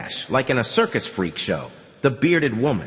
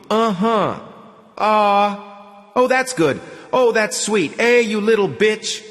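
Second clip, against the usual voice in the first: put-on rowdy drunk; 7 semitones higher, 4 dB louder than usual. Drunk men at the brothel table.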